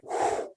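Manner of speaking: a soft, breath-only whew; soft exhale. Retold or imitated. Man coming down from rage under hypnosis, soft exhale. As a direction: let the rage out in one quiet breath. Retold release after rage.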